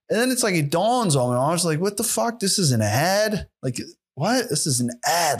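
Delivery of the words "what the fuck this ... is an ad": shocked disbelief. Retold or imitated. Realizing it's an ad.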